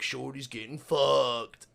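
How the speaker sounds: slow, drawn-out teasing call; mock taunt. Coworker greeting Shorty at the door, drawn-out taunt. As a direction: imitate a coworker stretching out the bad news.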